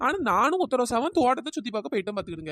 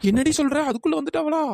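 louder, higher startled question; alarmed surprise; 4 semitones higher, 4 dB louder than usual. Acted. Chinna Ponnu startled that the owner has arrived, alarmed. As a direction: jolt up in alarm.

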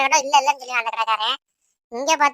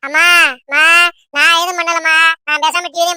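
raised voice, protesting innocence; loud protest; 2 semitones higher, 6 dB louder than usual. Acted. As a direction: call out to mother in self-defence. Child protests innocence to scolding mother.

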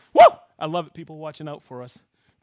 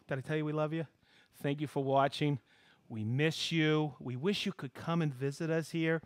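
warm sign-off. Real, not acted. Host wishing viewers safety at episode's end, warm and sincere. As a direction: ease down into a caring goodbye.

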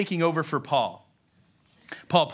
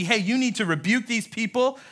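higher-pitched imagined pep talk; rally him to confront them; acted, insistent instruction; mock urging; 5 semitones higher than usual. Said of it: "Paul doesn't tell Timothy".

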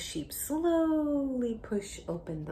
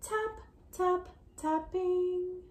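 much higher tap, tap, tapping; tap demo; 13 semitones higher, 6 dB louder, much slower than usual. Shown as a demonstration. Teacher showing a child the tapping sound. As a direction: model it for the child to copy. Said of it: "Can you try that?".

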